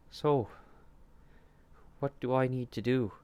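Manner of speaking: high, loud and quick nervous question. A narrator's reading. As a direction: ask it jittery and rushed. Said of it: "he asked nervously".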